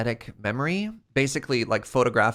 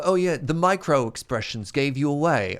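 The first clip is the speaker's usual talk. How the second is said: lightly attempted TV character's accent; a faint, badly faked accent. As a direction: have a half-hearted go at the show's accent. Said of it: "me trying to do that accent".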